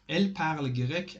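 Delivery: "Elle parle grec" rising into a question; questioning intonation. Shown as a demonstration. Teacher contrasting it with est-ce que, questioning intonation. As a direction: ask "Elle parle grec" by lifting the voice alone.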